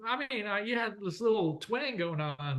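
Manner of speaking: a hint of someone puzzled by his twang; mock-curious questioner; imitating surprised people. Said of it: "A lot of people are like".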